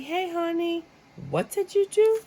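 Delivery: very high, rising to loud accusing call; hammed-up wife demanding an answer; mock wife. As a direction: scold like a suspicious wife. Voicing wife confronting partner.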